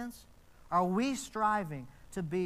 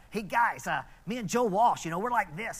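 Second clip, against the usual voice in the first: a northern US accent, mildly put on; northern US accent, lightly hammed up; imitated northern US accent; 4 dB louder than usual. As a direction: mimic a man from up north. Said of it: "I can still remember his accent".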